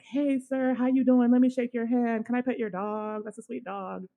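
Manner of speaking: lightly voiced, bubbly high greeting of a tipsy guy; a hint of a too-friendly drunk stranger; tipsy date greeting a homeless man, mildly voiced, overly friendly. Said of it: "so overly friendly".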